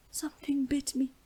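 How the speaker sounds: high unvoiced whisper; real quiet. A narrator's reading. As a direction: whisper it like nothing important. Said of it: "real quiet".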